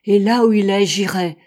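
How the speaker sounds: bursts out loud, then settles firm; rising animation. A narrator's reading. Captain insisting on climbing the volcano, loud. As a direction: declare it with growing fire. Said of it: "avec une animation croissante".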